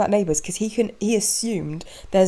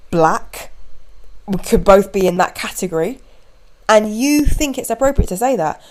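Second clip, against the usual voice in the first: louder, firm and pointed; firm confrontation; 3 semitones higher, 3 dB louder than usual. Retold or imitated. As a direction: call him out calmly but firmly. Partner confronts the stranger.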